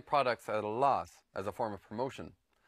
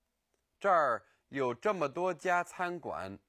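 slow; 3 semitones higher, slower than usual. Shown as a demonstration. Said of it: "There's so many restaurants here".

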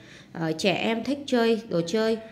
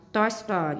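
"toy store" stressed on TOY; stress on first syllable. Shown as a demonstration. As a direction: make TOY the stronger word in "toy store". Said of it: "nhấn âm một". ("toy store" nhấn mạnh từ đầu)

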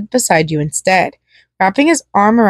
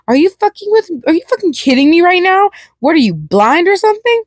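much higher, unhinged and mocking; high-pitched unbalanced clown; 9 semitones higher than usual. A narrator's reading. Clown turning on the guests, high and unhinged. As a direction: crack the voice up high like a dark clown. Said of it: "his voice becoming high-pitched and unbalanced".

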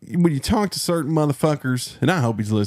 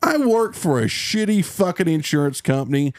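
mock confession; 3 semitones higher than usual. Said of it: "just be like".

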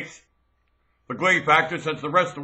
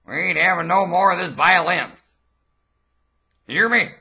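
angry command; 3 dB louder than usual. Acted. Threatening, demanding obedience.

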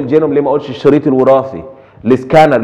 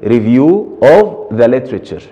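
slow dictation; much slower than usual. Shown as a demonstration. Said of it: "بيبقى عنوانه إيه؟".

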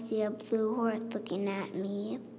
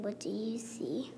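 whispered question; 4 dB quieter than usual. Acted. Child reading picture book, whispering the refrain. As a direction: hush the refrain.

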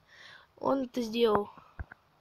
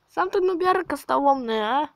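indignant retort; 3 semitones higher than usual. Real, not acted. Retorts the insult.

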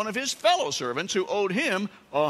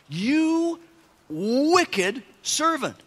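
high, loud, very slow condemnation; master's rebuke; 9 semitones higher, 4 dB louder, much slower than usual. Acted. Master condemning the wicked servant, high and slowly drawn out. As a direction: draw out each word in fury. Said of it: "he said".

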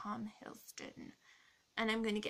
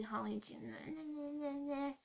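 higher, drawn-out mocking nonsense; mock festive babble; 5 semitones higher, much slower than usual. Grumpy vlogger wishing viewers merry Christmas, mockingly drawn out. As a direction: stretch the jolly greeting into silly babble. Mocking garbled holiday wish.

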